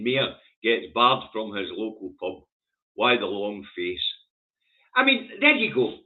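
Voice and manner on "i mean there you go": pitched way up in disbelief; exasperated high there you go. Real, not acted. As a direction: throw it up high, fed up. Exasperated at the horse-mayor story.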